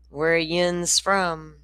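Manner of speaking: slow, hushed Tennessee mountain drawl; Tennessee drawl whisper. Retold or imitated. Shopkeeper asking the Florida girls where they're from, slow hushed drawl. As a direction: drawl the question out slowly under your breath. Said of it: "He says".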